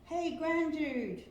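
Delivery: slow drawn out moo voice; mooing cows. A narrator's reading. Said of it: "mooed some friendly cows".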